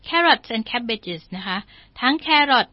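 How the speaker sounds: usual speaking voice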